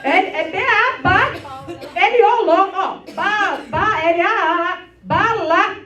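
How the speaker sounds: spelling out letters, then blending "bala"; sounding out words. Shown as a demonstration. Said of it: "sounding out syllables".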